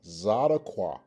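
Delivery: Zadokwa said with an opening Z; pronunciation demo. Shown as a demonstration. Teacher shows students how the noun is pronounced, careful demo of Zadokwa with a Z. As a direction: pronounce Zadokwa clearly, starting on a buzzed Z. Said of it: "this again is pronounced".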